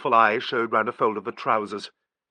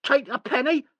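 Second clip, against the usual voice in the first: put-on high, slow scornful child voice; derisive child; 4 dB louder, slower than usual. A narrator's reading. Sissy mocking Nigel's coin, high and derisive. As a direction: sneer it like a sly little girl. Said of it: "said Sissy derisively".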